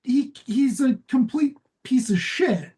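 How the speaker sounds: hushed whispered aside. Real, not acted. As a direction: drop to a whisper for the insult. Aside insulting a character.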